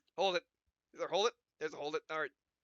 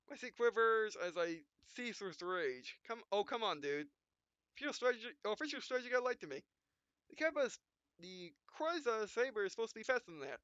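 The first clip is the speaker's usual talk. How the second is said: hero monologue; 6 semitones higher than usual. Acted. Gamer reading the hero's angry inner monologue, lightly voiced. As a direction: read the rage like a dramatic anime hero.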